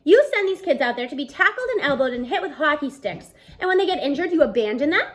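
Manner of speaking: teacher lecturing the coach, worked up. Acted. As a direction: let the outrage build. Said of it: "he's really worked up".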